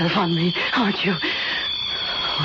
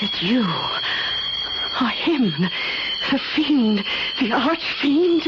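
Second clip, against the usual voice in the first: awed dread; 4 semitones higher, slower than usual. Acted. Naming him the fiend.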